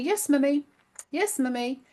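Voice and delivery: lightly voiced sweet child; a hint of an obedient young son; sweet little boy. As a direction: imitate a sweet little boy agreeing softly. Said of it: "Very, very sweet".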